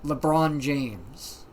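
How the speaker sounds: imitated deadpan exasperation, drawing out the name; no funny voice, just mildly fed up and firm. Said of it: "Just a firm and exasperated".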